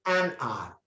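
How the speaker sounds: "hour" said "ah", no H; silent H. Shown as a demonstration. Teacher explaining why an is used, "hour" without its H. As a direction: start "hour" straight on the vowel. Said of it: "H is silent".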